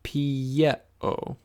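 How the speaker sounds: pieo said pi-e-o, clear and careful; model pronunciation. Shown as a demonstration. Teacher modelling pieo for students, careful. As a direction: say pieo for them to repeat. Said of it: "pronounce it out loud after me".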